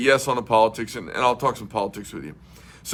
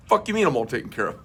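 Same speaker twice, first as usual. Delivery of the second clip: laughing disbelief; faster than usual. Retold or imitated. Retold confusion at tire shop.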